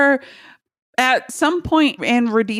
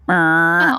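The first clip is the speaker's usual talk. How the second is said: fax machine sound; 6 semitones lower than usual. Retold or imitated. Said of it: "like he's a fax machine".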